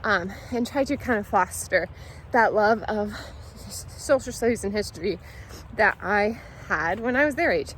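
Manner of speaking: talking while chewing gum; words round a wad of gum. Real, not acted. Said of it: "I also have gum in my mouth".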